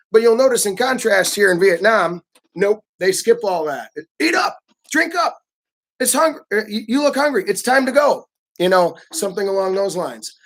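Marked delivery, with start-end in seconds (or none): 4.2-8.3 high, bossy urging to eat; a host ordering a guest to eat, high and insistent; pushy Vietnamese host. Retold or imitated. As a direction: push the guest to eat up, curt and direct. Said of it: "more demanding and more curt and more direct".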